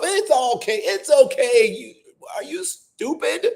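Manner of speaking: sarcastic, high, sing-song go-ahead; hammed-up fake approval; mock permissive voice.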